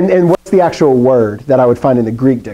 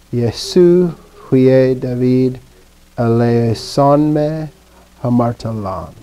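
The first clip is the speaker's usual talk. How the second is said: slow, measured recited prayer; Greek prayer recitation; much slower than usual. Acted. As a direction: pray it out, slowly.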